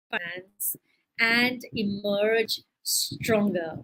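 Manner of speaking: measured read-aloud narration; teacher narrating an example story. A narrator's reading. Reads the sentence again.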